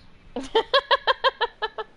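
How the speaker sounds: loud high-pitched laugh. Real, not acted. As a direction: burst out cackling. Laughing at chat.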